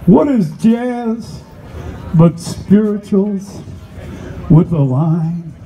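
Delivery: stately spoken-word opening; poem recital. Acted. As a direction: recite it slowly, with weighty gaps between phrases.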